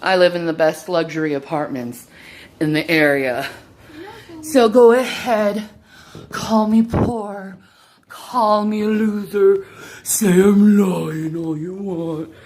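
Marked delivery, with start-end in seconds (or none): 4.4-12.3 louder, daring them to go on; defiant dare. Real, not acted. Daring her critics to call her a loser, defiant. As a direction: throw the challenge back at the critics.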